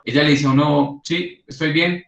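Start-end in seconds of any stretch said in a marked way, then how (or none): 1.0-2.0 sulky "I'm fine". Shown as a demonstration. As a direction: say you're fine while showing you're upset. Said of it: "pero con el tono de voz". ("estoy bien" dicho con enfado contenido)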